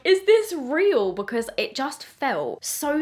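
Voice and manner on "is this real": high, slow, louder dreamlike question; dazed disbelief. Retold or imitated. To her fiancé in a dream state, high dazed disbelief. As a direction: ask as if stuck in a dream. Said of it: "I literally said to him".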